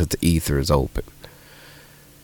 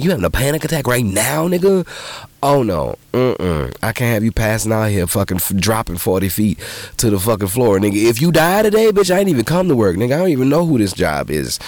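alarmed; 3 semitones higher than usual. Retold or imitated. Alarmed at coworker on lift.

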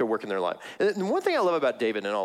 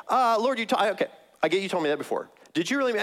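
sheepish David; 7 semitones higher, faster than usual. Retold or imitated. David nervously asking God if he meant it. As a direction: stammer it like an awkward ask.

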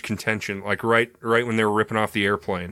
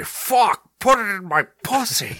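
high breathy-sounding mock seductive voice, much higher; pitched-up parody of a sexy narrator; mock sultry reading; 11 semitones higher, 3 dB louder, slower than usual. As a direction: ham up an erotic audiobook line. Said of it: "You could say".

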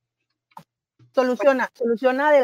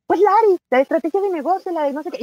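eager insisting; 5 semitones higher, 3 dB louder, faster than usual. Retold or imitated. Insisting to husband who Lari is.

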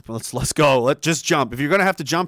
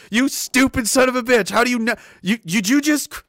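mock outrage; 7 semitones higher, 3 dB louder than usual. Mock rant at the guy.

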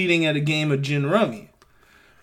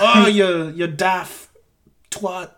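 muddled mock-British accent; attempted British; slower than usual. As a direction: try a British insult, unsure of the accent. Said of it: "What the fuck accent is that?".

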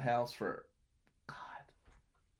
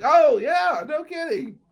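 laughing through it; 12 semitones higher, 12 dB louder, slower than usual. Retold or imitated. Mock-casual reply to drunk host.

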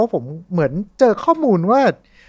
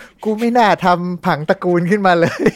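lightly acted groan of regret from the grave; Lovecraft; 3 semitones higher than usual. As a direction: playfully voice a regretful dead author. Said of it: "ถ้าเลิฟคราฟต์มาเห็นเนี่ยก็คงดิ้นอยู่ในหลุม".

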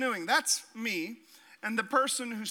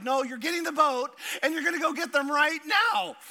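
stern dad order; 6 semitones higher, 4 dB louder than usual. Retold or imitated. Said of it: "his dad was like".

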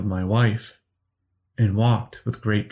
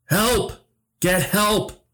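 high, urgent cry for help; shouted plea; 11 semitones higher, slower than usual. A narrator's reading. Flickering trapped man begs his younger self for help, shouting. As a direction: cry out for help, pitch leaping up. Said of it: "he shouted".

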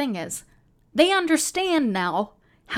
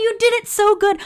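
excited pleading; 12 semitones higher, 6 dB louder than usual. Real, not acted.

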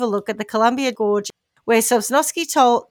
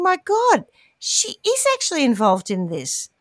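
acted realisation; 4 semitones higher than usual. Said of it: "This is the policeman".

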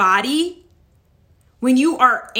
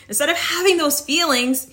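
ordinary delivery

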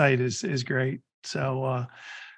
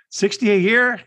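louder, higher incredulous check; surprised question; 6 semitones higher, 6 dB louder than usual. Retold or imitated. Guy questions the Ferrari driver's pay, mock surprise.

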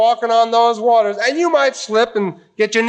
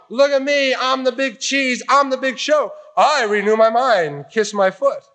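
mock show-off; 4 semitones higher than usual. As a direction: play the arrogant big shot. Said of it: "is not just a big show".

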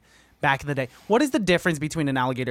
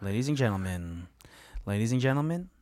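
hype man; 5 semitones lower, 6 dB quieter than usual. Pretend. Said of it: "I was, I was being your hype man".

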